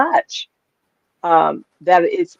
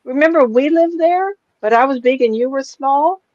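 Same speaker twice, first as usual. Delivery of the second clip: put-on high little-child voice; three-year-old granddaughter; 8 semitones higher than usual. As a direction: imitate a small girl recalling something. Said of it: "my three-year-old granddaughter walked in".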